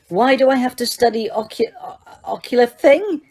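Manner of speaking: high, stumbling blurt. A narrator's reading. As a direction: blurt it out, tripping on the strange word. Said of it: "he blurted out".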